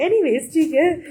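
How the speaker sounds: laughing through the words; a real laugh breaking in. Real, not acted. Giving up on the topic while laughing.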